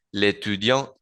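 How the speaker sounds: l'étudiant as one word, no vowel before étudiant; l'étudiante with the final T sounded; elision demo. Shown as a demonstration. Teacher showing elision in l'étudiant and l'étudiante. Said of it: "hago elision".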